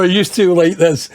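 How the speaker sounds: mock-insistent retold quote; emphatic repeat. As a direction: lean into it the second time.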